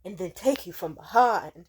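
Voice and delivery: mock a drunk loudmouth, punching out the sound effects; drunk heckler. Drunk man interrupting a comedy show, loud mock boasting. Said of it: "this dude drank way too much".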